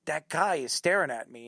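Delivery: low hushed aside, warning a friend; murmured under the breath. Retold or imitated. Telling his friend at the store about the starer, hushed.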